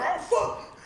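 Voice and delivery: high, loud startled yell with a laugh; retold startled shout. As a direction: shriek in mock panic. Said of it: "I'm like".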